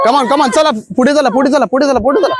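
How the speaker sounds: insistent high-pitched call to move; urging runners on. Real, not acted. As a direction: keep them moving forward with quick repeats. Coach urging runners forward.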